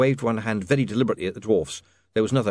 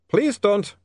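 put-on high, louder accented plea; pleading vampire; 11 semitones higher, 5 dB louder than usual. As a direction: beg her off in a high vampire voice. Otto tries to stop her.

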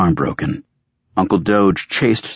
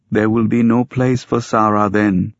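higher, strained-with-pain character voice; hurting, higher-pitched man's line; 5 semitones higher than usual. A narrator's reading. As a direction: speak through obvious pain, pitch raised. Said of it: "pain obvious".

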